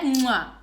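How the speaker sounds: a quick smacking kiss; imitated mwah kiss; kiss sound. Shown as a demonstration. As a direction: mimic the kiss you heard. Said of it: "was a kiss".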